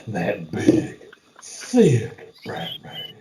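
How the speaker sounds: THICK stretched out long and high; stress on THICK. Acted. Teasing a co-host about Affleck's Batman, THICK drawn out. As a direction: draw out THICK with relish.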